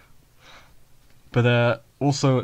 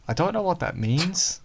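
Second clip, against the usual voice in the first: puzzled character quote; 3 semitones higher than usual. Retold or imitated. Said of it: "Yuji will be like".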